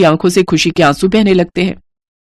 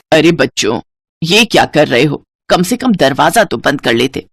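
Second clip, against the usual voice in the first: put-on lower, kindly older woman voice; lower, soothing motherly tone; mother-in-law; 3 semitones lower than usual. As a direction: speak as a gentle elderly mother-in-law.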